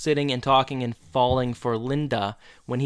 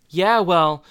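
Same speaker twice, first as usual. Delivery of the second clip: stammering imitation, pitched higher; hesitant, awkward quote; 5 semitones higher, 4 dB louder than usual. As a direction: haltingly mimic an awkward admission. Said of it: "funny the way he said it".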